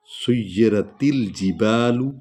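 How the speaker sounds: सुय्यिरतिल with te run into laam; joined te-laam. Shown as a demonstration. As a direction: glide सुय्यिरतिल without a break at तिल. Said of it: "ते को लाम में मिलाएंगे". (ते को लाम में मिलाकर)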